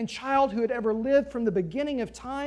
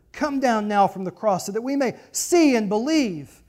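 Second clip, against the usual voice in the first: mock; 6 dB louder than usual. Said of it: "mocked him".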